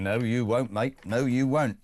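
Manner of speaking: half-hearted mock heckle; mocking MPs' retort. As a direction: tease it like grumbling MPs, no you won't mate. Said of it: "most of M Ps are going".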